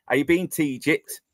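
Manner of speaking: broad Yorkshire accent, "been to" run together; clipped-together Yorkshire dialect on "been to Egypt". Shown as a demonstration. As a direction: show how Yorkshire locals squash "been to Egypt". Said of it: "They say".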